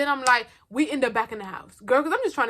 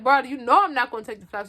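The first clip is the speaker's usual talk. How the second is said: exasperated retort; 3 semitones higher, 8 dB louder than usual. Retold or imitated. To Refrigerator asking why she won't take them, loud exasperated retort. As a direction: push back hard like the question is absurd.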